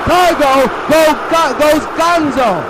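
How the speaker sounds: stumbling over the home run call; stuttering. Pretend. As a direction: trip over the words while shouting. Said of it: "without stuttering".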